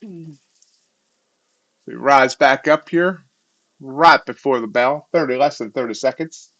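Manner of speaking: slipping into a bad southern accent, slow at first; a lazy, unplanned southern accent; half-hearted southern accent. Real, not acted. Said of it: "Not sure why I'm speaking in a southern accent. A bad one at that".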